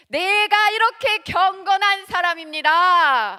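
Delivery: loud, slow, self-important prayer voice; showy pious boast. Retold or imitated. Preacher mocks a Pharisee showing off: loud pompous prayer. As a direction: puff up like a proud Pharisee praying.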